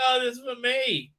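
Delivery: high-pitched delighted mum impression; mock wine mum. Host imitating mums who found their show, mock delight. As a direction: put on a pleased mum's high voice. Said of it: "mums who have taken their kids".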